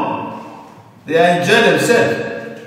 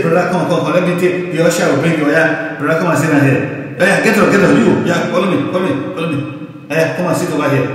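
fawning usher. Retold or imitated. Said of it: "you say".

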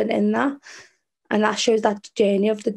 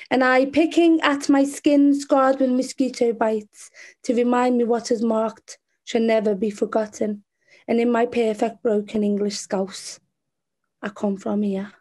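poetry reading. Acted. Poet answering where they come from, spoken-word recital. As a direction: recite it in deliberate phrases, easing down at the end. Reads own poem aloud.

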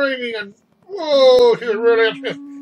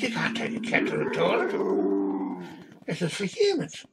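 stern waitress; 2 semitones lower, 4 dB quieter, slower than usual. Retold or imitated. Waitress refuses the cat.

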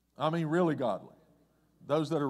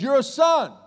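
higher, louder declaration; proclaiming Jesus; 6 semitones higher, 7 dB louder than usual. Acted. Jesus declares the twisted man a son, loud proclamation. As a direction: declare it over him. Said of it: "he says".

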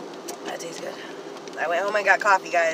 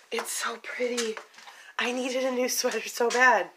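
whispered admiration; 2 semitones higher, 8 dB quieter than usual. Real, not acted. Vlogger showing viewers her new sweater, hushed whisper. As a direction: breathe it out in awe.

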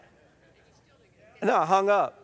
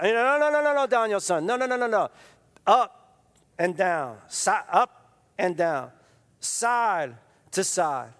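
Miyagi correcting. Retold or imitated. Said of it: "Miyagi correcting Daniel".

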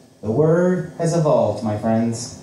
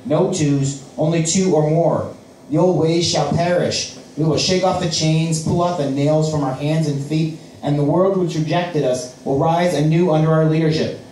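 fiery preaching; 2 semitones higher than usual. Acted. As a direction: preach it to the crowd. The man preaches to crowd.

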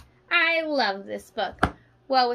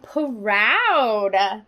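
breathy whisper of the word; 3 semitones lower than usual. Shown as a demonstration. Teacher opening the proud page in a whisper. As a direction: whisper it like a secret pride.

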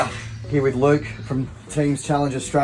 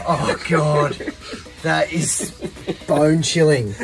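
shivering laugh; slower than usual. Real, not acted. In ice bath, laughing.

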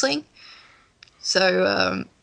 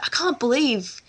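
bad American accent; 3 semitones higher than usual. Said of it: "I can't do the American accent at all".

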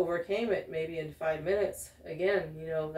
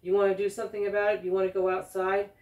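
fast, louder challenge to step outside; retold quick, heated dare to fight; mock confrontation; 4 dB louder, faster than usual. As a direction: fire it off like picking a fight. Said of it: "the Spanish-speaking guy goes".

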